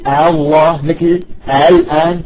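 slow "الله" and "الآن" with softened second hamza; drawn-out openings on "الله" and "الآن", no second stop; eased hamza. Shown as a demonstration. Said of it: "تسهيل مثل".

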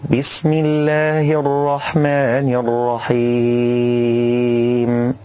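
slow, drawn-out chanted recitation; tajwid recitation. Shown as a demonstration. Teacher recites the correct basmala. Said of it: "الصواب أن نقول".

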